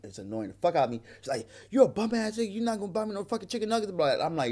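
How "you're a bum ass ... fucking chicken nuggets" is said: higher-pitched mock of an angry woman; in-your-face complaint. Man imitating the woman in his face, higher indignant mock. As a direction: imitate her confrontational griping. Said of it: "she getting in my face".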